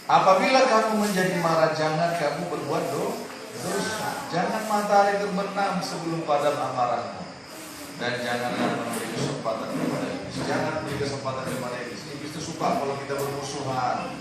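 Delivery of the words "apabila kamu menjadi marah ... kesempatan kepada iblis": steady reading that settles down; calm scripture reading. Acted. Rereads verse calmer. (membaca ayat dengan tenang, makin pelan)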